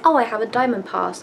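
loud and clear over a noisy hall; said quite loudly. Retold or imitated. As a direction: call it out like a cafe worker. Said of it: "like, quite loudly because".

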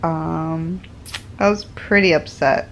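giggling through an apology; laughing. Real, not acted. Apologizing to viewers for the clip, laughing.

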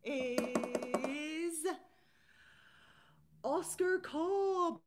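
slow, drawn-out, loud, high announcement of the name; big winner reveal. Acted. Host revealing the voucher winner to viewers, loud and drawn out. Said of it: "I tried to drum roll".

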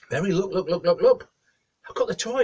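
high, loud, excited calling. Acted. Husband tells wife the toy has come, excited. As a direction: rush her over with eager repeats. Geordie shows off arrived toy.

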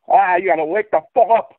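lightly imitated accent of a passionate truther; mild mock accent, imitating a truther; M B T impression. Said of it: "I don't know what accent he has".

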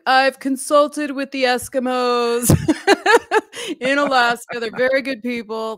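a hint of Trump bragging; imitating Trump. Father retelling son's Trump voice, laughing. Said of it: "talks to me like Trump".

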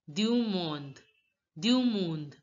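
du monde as "dyu mond", said twice; silent final e. Shown as a demonstration. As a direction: close monde on the d. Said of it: "E is not pronounced".

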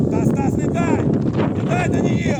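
loud call across the pitch. Real, not acted. Coach to players during play, loud shout.

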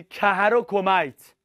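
slow, careful pronunciation of "کهر و کمیت"; pronunciation demo. Shown as a demonstration. Teacher checking students learned the pronunciation, "کهر و کمیت" said slowly. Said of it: "تلفظ یاد گرفتی".

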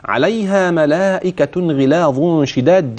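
slow tajweed recitation; Quran recitation. Shown as a demonstration. Sheikh reciting the next complete phrase, slow and even. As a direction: draw the words out slowly. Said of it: "نخلي بالنا".

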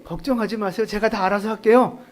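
calm reassuring son; calm reassurance. Retold or imitated. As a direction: gently reassure mother. Jesus ideally reassures his mother.

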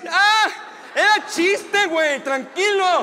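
high, loud, yelping protest; acted pained pleading. Comedian begging his attacker to stop, acted yelping. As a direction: plead in a yelp between blows. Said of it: "Y yo solo estaba así".

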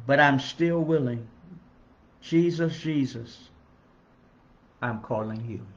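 song lyrics spoken as an earnest plea; heartfelt lyric recital. Acted. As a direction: recite the words like a prayer of longing. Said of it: "and the words go like this".

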